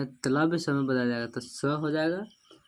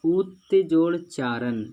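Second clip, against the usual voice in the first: उत्जोड़ चारण said slowly and a bit louder, each part clear; slow, spelled-out example; 3 semitones higher, 5 dB louder, slower than usual. Shown as a demonstration. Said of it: "क्या बोला". (धीरे और ज़ोर से, साफ़-साफ़ बोला गया)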